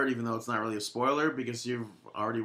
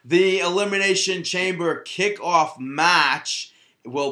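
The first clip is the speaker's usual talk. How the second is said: higher, louder, very slow strange announcing; odd announcer voice; 3 semitones higher, 6 dB louder, slower than usual. Acted. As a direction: stretch each word like a weird ring announcer. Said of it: "you all right?".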